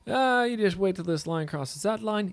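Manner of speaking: put-on high, slow Russian accent; mock Russian accent. Trader imitating online strategy teachers, in a mock Russian accent. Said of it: "I'm trying to do a Russian accent".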